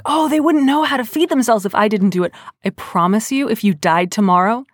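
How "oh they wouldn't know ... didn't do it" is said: mock fretting, pitched higher; worried. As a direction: imitate people fussing over someone helpless. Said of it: "People are always so worried".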